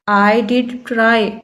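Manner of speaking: did pressed firmly in I did try, slow; stress on did. Shown as a demonstration. Teacher showing students the emphatic did, stress on did. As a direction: lean on the word did. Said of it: "उसे emphasise करना हो".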